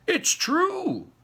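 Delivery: high, loud insistent cry; all at once, vehement; cried out. A narrator's reading. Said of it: "cried all four of the old people".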